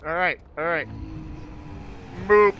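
high, loud panicked shrieking; terrified screaming. Real, not acted. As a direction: scream while fleeing for your life. Fleeing the monster, frantic.

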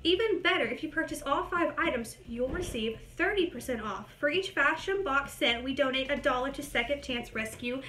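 brisk read of the booklet text, slightly fast; quick reading aloud. Acted. Reading the booklet to viewers, quick and brisk. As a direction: rattle through the fine print.

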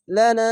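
লানা with the long vowel stretched; drawn out. Shown as a demonstration. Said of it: "এভাবে টেনে পড়বেন।". (লানা টেনে দীর্ঘ করে)

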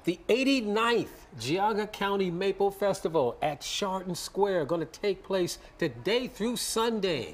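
slow, deliberate broadcast wrap-up; news anchor read. Acted. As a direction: close it out like a news promo. Anchor wraps the segment.

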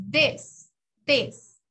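"this" with a short, open vowel near "dess". Shown as a demonstration. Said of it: "miren la pronunciación de esta palabra". ("this" con vocal corta, casi una E)

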